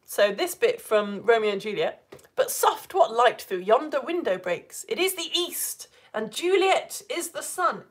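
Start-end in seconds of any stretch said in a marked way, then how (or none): 2.4-7.9 slow, measured Shakespeare recital; verse reading. Shown as a demonstration. Teacher reading Romeo and Juliet to test the rhythm, measured. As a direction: recite the verse with lifted stresses.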